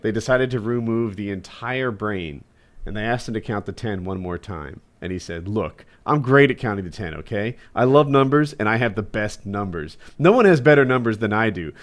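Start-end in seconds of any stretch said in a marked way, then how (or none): 5.5-11.7 Trump impression. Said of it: "That's a hilarious Trump joke".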